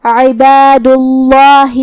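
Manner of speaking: عباد اللہ slow, with a light, thin lam; light Allah. Shown as a demonstration. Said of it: "لفظ الجلالہ کو ہلکی آواز میں پڑھنا ہے". (عباد اللہ میں اللہ کو ہلکی آواز میں)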